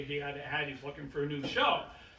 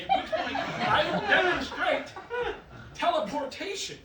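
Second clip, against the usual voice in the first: grand announcement; 12 semitones higher, 4 dB louder than usual. Acted. Magician announcing grand trick.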